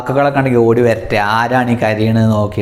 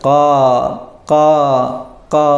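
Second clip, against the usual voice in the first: long, separated caws; teacher's demonstration of crow cawing; imitated crow caw; 2 semitones higher than usual. Shown as a demonstration. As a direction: mimic a crow calling. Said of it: "അതിൻ്റെ ശബ്ദം ഇതാണ്".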